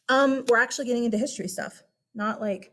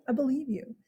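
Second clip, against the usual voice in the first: reassuring; 3 semitones higher, 4 dB quieter than usual. Real, not acted. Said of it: "Calm down".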